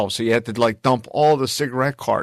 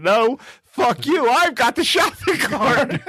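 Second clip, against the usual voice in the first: mock defiant retort; 10 semitones higher, slower than usual. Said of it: "I said".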